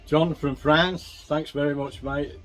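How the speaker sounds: slow, loud, drawn-out name call; hearty shoutout. Real, not acted. Vlogger thanking viewer John from France, hearty.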